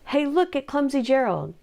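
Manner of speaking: sneering. Acted. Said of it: "the animals all sneered".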